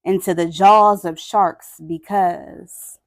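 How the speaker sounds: weighty, dramatic read-aloud with long pauses; solemn story narration. A narrator's reading. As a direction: tell the grim story phrase by phrase. Reads picture book aloud.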